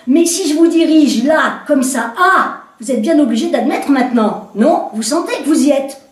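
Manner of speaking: stage the scene for him, insistent; woman directing the commissaire's reenactment; commanding woman. Acted.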